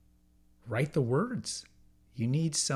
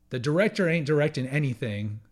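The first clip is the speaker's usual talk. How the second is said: folksy Texan accent; 4 semitones higher, 4 dB louder, faster than usual. Shown as a demonstration. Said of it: "pardon my Texan accent there".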